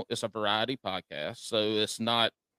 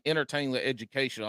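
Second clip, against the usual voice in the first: rushed tongue twister; 3 semitones higher, faster than usual. Shown as a demonstration. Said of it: "to say with a Southern drawl".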